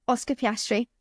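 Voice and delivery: confident. Real, not acted. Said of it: "That was strong. That was said with confidence".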